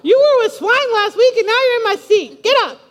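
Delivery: loud, high mock outrage; all mad. Churchgoer ordering a newcomer out of their seat, mad. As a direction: order them out in a comic huff. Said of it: "be all mad and saying".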